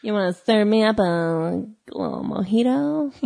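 put-on light creamy Cuban accent; sultry Cuban lady voice, lightly done. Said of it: "That's your creamy Cuban voice?".

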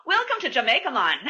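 laughing mock Jamaican accent. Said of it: "I can just see".

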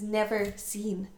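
slow, soft, half-whispered; spooky ending whisper. A narrator's reading. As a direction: end the tale in a hushed tone.

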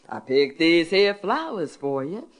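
lightly voiced Southern uncle, slow; old uncle. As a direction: offer the flowers gently and slowly.

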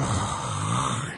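long, soft sleeper's exhale; imitated sleeping breath. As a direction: breathe out like someone out cold. Imitating a man sound asleep.

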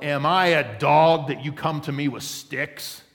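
loud mocking giant's challenge; yelled taunt. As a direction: bellow it across the valley. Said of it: "he yelled".

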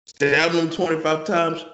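taken aback, demanding an explanation; incredulous. Real, not acted. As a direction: question it in disbelief. Reacting to a shocking hypothetical.

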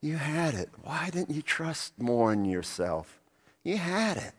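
put-on a mother comforting her baby; tender mother. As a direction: soothe a fallen toddler. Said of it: "the mother with that little baby".

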